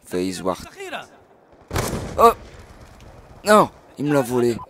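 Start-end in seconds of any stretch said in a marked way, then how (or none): 2.2-4.6 loud high oh no, kill snatched away; dismayed cry. Real, not acted. Gamer loses his kill to an enemy, dismayed cry. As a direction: cry out as the kill gets stolen.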